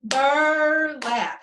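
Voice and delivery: "Burlap" in two separate beats, bur held long; "Burlap" pulled apart between bur and lap; split into syllables. Shown as a demonstration. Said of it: "One more time".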